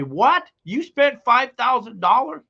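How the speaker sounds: high, rising mock wife outrage; hammed-up wife squealing in disbelief; shocked wife. Wife hearing five thousand dollars, high mock outrage. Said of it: "She'll say".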